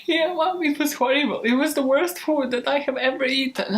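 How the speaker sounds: put-on child lying to mom about food, eager; kid fibbing to mom. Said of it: "And you're like".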